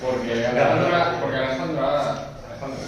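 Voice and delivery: talking around a hard candy; sucking a hard candy. Real, not acted. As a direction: speak with a candy in your mouth. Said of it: "tengo un caramelo en la boca".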